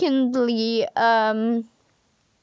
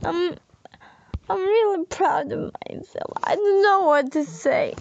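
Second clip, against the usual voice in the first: emotional rush; 5 semitones higher, faster than usual. Real, not acted. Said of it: "sorry to hear me crying".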